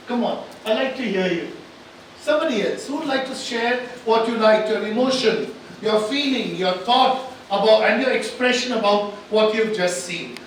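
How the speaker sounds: loud, urging call to the room; projecting to a hall, pressing for volunteers; coaxing. Real, not acted. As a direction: rouse the audience to speak up. Host urging audience to share.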